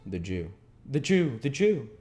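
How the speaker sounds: building from breathless to a high loud cry; a frightened boy shouting for help; terrified cry. A narrator's reading. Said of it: "scarcely able to articulate the words".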